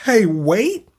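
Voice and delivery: mock calm. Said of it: "You're just gonna say".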